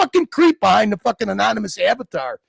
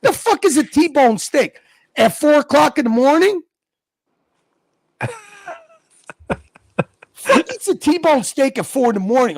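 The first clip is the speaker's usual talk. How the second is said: incredulous; 3 semitones higher than usual. Real, not acted. Incredulous rant about steaks.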